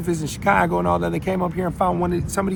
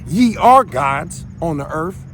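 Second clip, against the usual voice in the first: slow scripture recital; slower than usual. Acted.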